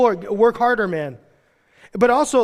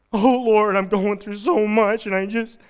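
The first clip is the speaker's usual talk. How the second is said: mild lament; 2 semitones higher than usual. Retold or imitated. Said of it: "can I be serious".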